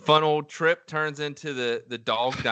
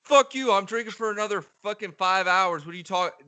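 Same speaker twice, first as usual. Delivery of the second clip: mock mad drunk; 8 semitones higher than usual. Friend imitating the drinker's mad denial, high and indignant. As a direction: burst out high, then tail off. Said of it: "And then I'll get mad".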